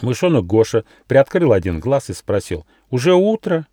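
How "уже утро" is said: much higher squeaky mouse voice, drowsy; sleepy little mouse. Acted. Mouse Gosha waking up asks the gnome, high mouse voice. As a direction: peek out with one eye and ask sleepily.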